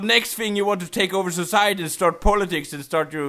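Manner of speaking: hammed-up scolding that builds into a high outburst; angry rant. Trainer berating a Pikachu that refuses the Pokeball, angry rant.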